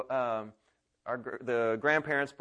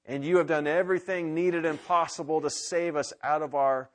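closing prayer. Acted. Pastor praying for the congregation, earnest prayer.

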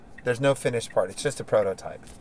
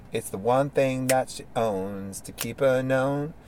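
lyric recital; slower than usual. Acted. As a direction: recite it like a poem, slowly. Reciting his lyrics slowly.

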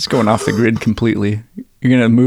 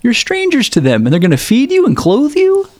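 mock indignation; 6 semitones higher than usual. Sarcastic mock outrage.

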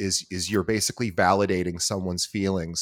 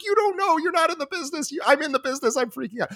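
much higher, frantic mock outburst; retold frantic rant; faster than usual. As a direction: squeal it like you're losing it over the deal. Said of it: "but I'm yelling".

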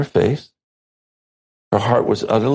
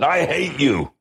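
put-on child; 6 semitones higher than usual. Daughter voiced in story.

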